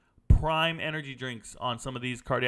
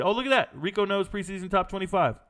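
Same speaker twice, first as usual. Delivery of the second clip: mock surprised discovery; 5 semitones higher than usual. Host imitating a viewer spotting the ranking, mock surprise. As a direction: act out a viewer finding the list, pleasantly surprised. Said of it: "And you'll be".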